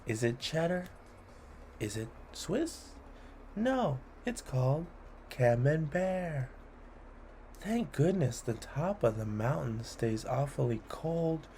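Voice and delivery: playful rhythmic read-aloud; poem reading. A narrator's reading. Host reading a cheese poem to children, playful. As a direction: lilt through the rhymes for kids.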